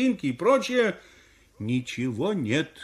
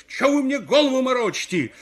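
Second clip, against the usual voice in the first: high, loud exasperation; exasperated outburst; angry shout; 8 semitones higher, 5 dB louder than usual. Acted. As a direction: yell back at the crowd in protest. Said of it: "как закричу на них".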